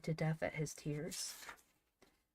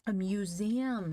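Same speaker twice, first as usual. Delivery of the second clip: loud, drawn-out higher shout; 4 semitones higher, 5 dB louder, slower than usual. A narrator's reading. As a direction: shout it slowly, stretching the word. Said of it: "shouted Van".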